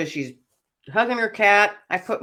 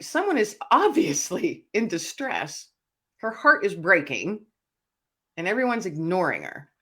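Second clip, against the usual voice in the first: mock-incredulous plea for someone suffering; indignant concern. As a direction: stretch it out in pointed disbelief. Acted indignation at ignored woman.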